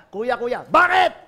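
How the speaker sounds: pleading younger brother. Acted. Joseph calling to his older brothers, mildly pleading. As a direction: call out to big brothers, slow.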